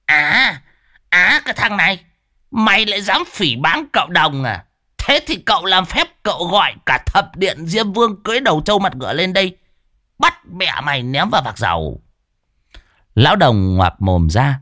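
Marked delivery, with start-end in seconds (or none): 0.1-12.0 high hammed-up blustering threat; mock threat. A narrator's reading. Old Đồng pretending to curse Lâm, hammed-up high bluster. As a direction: play the mighty sorcerer.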